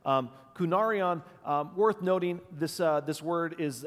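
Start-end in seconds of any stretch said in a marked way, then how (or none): 0.5-1.2 "kunarion" higher and louder, falling at the end; stressed again. Shown as a demonstration. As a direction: repeat "kunarion" with firm stress. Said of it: "there's the emphasis".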